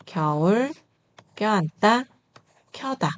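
lax 겨울, tense 껴안다, high aspirated 켜다; word drill. Shown as a demonstration. Teacher modelling example words, careful separated 겨울, 껴안다, 켜다. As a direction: say 겨울, 껴안다, 켜다 apart, showing each onset. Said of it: "한 번 더".

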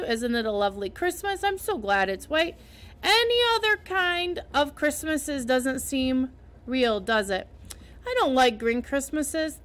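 chattering happy girl, lightly voiced; a young girl thrilled by Christmas; excited girl Anne.

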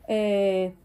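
ordinary delivery

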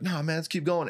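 high, cocky bravado. Retold or imitated. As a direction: shrug it off and dare him. Opponent bravado.

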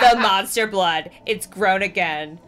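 slow and loud, spooky; slow loud hammed-up dread; ominous announcement. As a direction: lean into the horror. Evan announces the monster blood.

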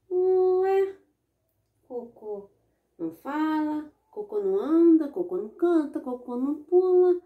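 high incredulous protest; can't believe your eyes; astonished disbelief. Acted. Boy astonished at singing poop. (espanto agudo e indignado)

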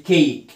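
"cake" slowly, with a stretched ay; long a. Shown as a demonstration. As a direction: draw out the letter-name a in "cake". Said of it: "هنطق ال A باسمه".

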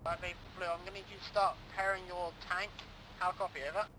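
tinny radio voice through headset; crackly military radio. Real, not acted. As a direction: talk like over a crackly field radio. Commander speaking over team radio.

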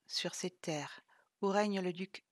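récit murmuré; chuchoté. Acted. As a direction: chuchoter le début du conte. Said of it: "d'une voix plus forte et claire". (Vlad commence son récit en chuchotant)

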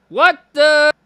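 high, loud burst of disbelief; shocked laugh. Real, not acted. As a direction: yelp then laugh in shock. Shocked by the image.

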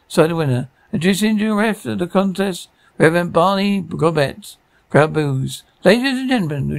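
lightly played fight announcer, lifted pitch; ring announcer. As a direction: introduce the bout like a ring MC. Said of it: "loud, distorted voice".

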